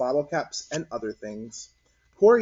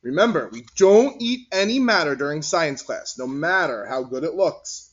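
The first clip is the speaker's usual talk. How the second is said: louder, firm teacher voice; teacher warning; 5 dB louder than usual. Acted. Mister Whiskers warning Martin not to eat, firm and louder. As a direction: warn the boy like a kind teacher.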